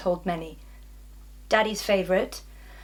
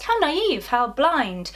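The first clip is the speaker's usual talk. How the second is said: higher, imitation of judgmental askers; mock scandalised questioning; 4 semitones higher, 4 dB louder than usual. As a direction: pile up their pitying questions mockingly. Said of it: "they ask".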